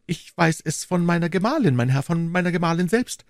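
a nervous little merchant confiding; Bonacieux voice. Acted.

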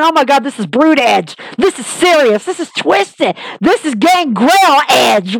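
building from awed to a full shout; losing it in your seat as the reveal lands; excited fan shouting. Retold or imitated. Fan jumping out of seat, building to an excited shout. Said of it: "literally coming out of my seat going".

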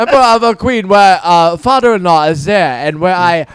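lightly voiced caricatured Asian accent; a hint of a broad Asian accent. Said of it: "attempt at a white person's accent".

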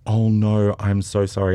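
mock aghast outburst; horrified apology. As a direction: imitate a mortified apology. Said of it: "And she was horrified".

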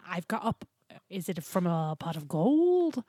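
halting, faltering attempt at Irish; badly faked Irish brogue; shaky Irish accent. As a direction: fumble through an Irish accent. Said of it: "my Irish accent needs some work".

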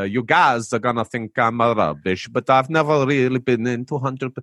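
attempted Italian drifting into Transylvanian; bad Italian accent that lands in Transylvania; unintended Transylvanian accent. Host retrying a listener's message in a would-be Italian, Transylvanian-sounding accent. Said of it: "I sound like I'm from Transylvania".

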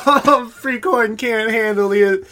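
loud, high-pitched jeering; high, loud playground taunt; mocking bully. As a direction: jeer loudly at someone who can't keep up. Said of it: "everyone kinda starts laughing and go".

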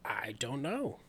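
unvoiced, quiet whisper; soft whispered reply. Real, not acted. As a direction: breathe the answer. Setup of a joke.

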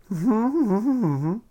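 put-on high giggling old lady; old lady giggle. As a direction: giggle like a naughty granny. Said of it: "she kinda giggles".

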